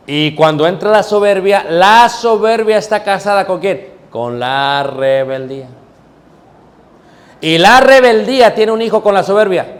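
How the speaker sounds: high and loud building climax; preaching at full force. Real, not acted. Preacher builds chain of sins.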